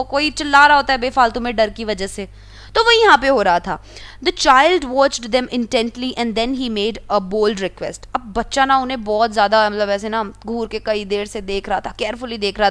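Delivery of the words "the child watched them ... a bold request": slow, careful read-aloud of the story. A narrator's reading. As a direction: read each word out slowly for the class. Reading the English story text. (धीमी आवाज़ में कहानी पढ़ना)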